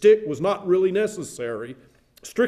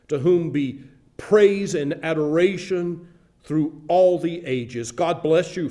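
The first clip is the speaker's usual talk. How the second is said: measured, ceremonial blessing; solemn benediction. Acted. Pastor blessing the new minister at ordination, solemn benediction. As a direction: bestow the blessing with solemn dignity.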